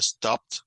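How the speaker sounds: stopped, with the p held a little longer; stopped, with a short stop before the final t. Shown as a demonstration. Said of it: "se siente la P como un poco más larga". (stopped con la P alargada)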